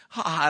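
spoken "ha, ha" villain laugh; mock laugh. Storyteller imitates Pip laughing at Rocky, mock laugh. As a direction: imitate a gloating laugh in brief. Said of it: "and laughs".

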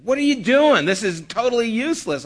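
teacher laying into two students, imitated scolding. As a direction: snap at the students like a stern teacher. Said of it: "she really laid into us".

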